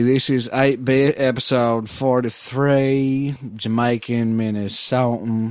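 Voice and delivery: slow, hammed-up Jamaican Minnesotan accent. Host reading the show intro to cohosts in a mock Jamaican Minnesotan accent. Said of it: "I like Jamaican Minnesota".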